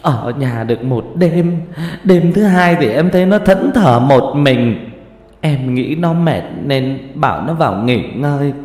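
a mother sobbing out how her daughter died; tearful grieving mother. Acted. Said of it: "Mẹ nó khóc lóc mếu máo".

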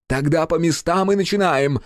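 high, loud barked order. A narrator's reading. Director ordering the crew to places, barked high command. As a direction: bark the command at everyone. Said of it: "пролаял режиссёр".

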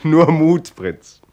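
laut und hoch aufmunternd; spöttisch ermunternd. Acted. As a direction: ihm mit Nachdruck Mut zusprechen. (laut ermunternd zum Prinzen)

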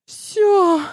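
high loud snapped word; выкрикнуть; final outburst. A narrator's reading. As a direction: shout it and hang up. Rival cuts off the call.

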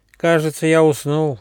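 high, puzzled little voice; surprised. A narrator's reading. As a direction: wonder at it, just waking. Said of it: "удивился ежонок".

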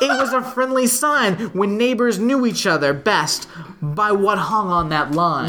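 measured, lilting verse reading; poem recitation. Acted. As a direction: read it out in steady singsong metre. Reads a poem aloud.

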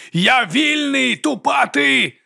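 high, slow cry of freedom; triumphant shout. A narrator's reading. Sorcerer shouting his freedom, high and slow. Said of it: "закричав він".

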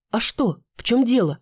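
sudden worried pitch jump; alarmed. Acted. Sister alarmed. (встревоженный вопрос)

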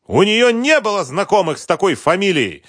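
high, loud outraged denial; shouting. Acted. Husband denying his wife knew the victim, shouting. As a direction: yell it down flat. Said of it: "закричал Сергей Викторович".

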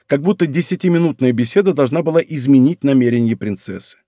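ordinary delivery

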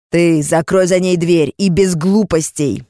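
slow, loud command; loud order. Acted. Captor barking an order to his man. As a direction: order sharply.

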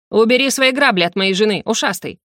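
сердитый окрик ревнивого мужа; гаркни на соперника; Сандр. Acted. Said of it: "гаркнул в камеру артефакта". (сердито гаркнуть)

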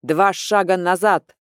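loud barked order; booming command. Acted. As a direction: boom the order at the troops. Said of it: "зычный голос командира". (зычная команда)

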